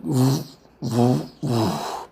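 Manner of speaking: breathy "woof" heaves, imitating a shove; effortful push noises. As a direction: mimic heaving a heavy lid aside. Imitating effort of pushing lid.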